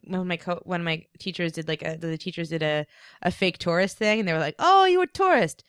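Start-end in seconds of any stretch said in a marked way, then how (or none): 4.6-5.6 high, loud imitation of a student; pitched up, loud acted outburst; mock exclamation. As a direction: call out the tourist in a raised voice. Acting out students spotting a tourist.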